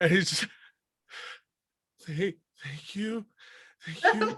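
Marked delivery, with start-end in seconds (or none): 2.1-4.4 frightened, dazed, numb voice, higher and quieter. Voicing a character thanking the party after an ape's attack: terrified and numb. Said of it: "go into somewhere between terrified and numb".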